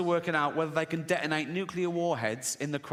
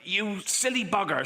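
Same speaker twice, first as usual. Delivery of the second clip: higher-pitched mock telling-off; retold scolding; 5 semitones higher than usual. Retold scolding after a prank.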